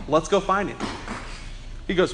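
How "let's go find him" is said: low, softer, offhand retold line; low-key suggestion. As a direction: suggest it quietly, almost under your breath. Retold suggestion, first take.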